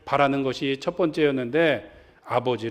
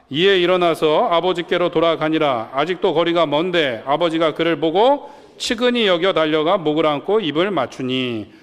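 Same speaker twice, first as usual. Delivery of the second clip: measured, slightly louder Bible reading; scripture reading; 4 dB louder than usual. Acted. Pastor leading the congregation in reading the verse, read out steadily. Congregation reads Luke 15 aloud.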